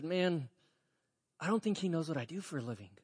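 quick, hushed aside, still voiced; retold whisper. Pastor leaning over to his barber, mock-whispered aside. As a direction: lean in and say it low, soft and quick. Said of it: "I start whispering to him".

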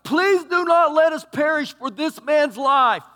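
loud, high desperate prayer; mock frantic plea; pleading sailors. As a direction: beg God for their lives. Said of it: "listen what they said to him".

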